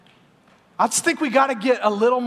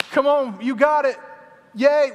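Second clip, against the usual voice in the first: higher, louder sideline cheer; 4 semitones higher, 4 dB louder, slower than usual. Retold or imitated. Parent at the kids' game, cheering them on. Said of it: "we're cheering them on".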